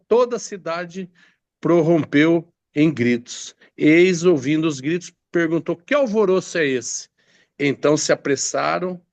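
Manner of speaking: deliberate narrative Bible reading; scripture reading. Acted. Preacher reads news of the lost ark, measured scripture reading. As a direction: tell it from the page, phrase by phrase.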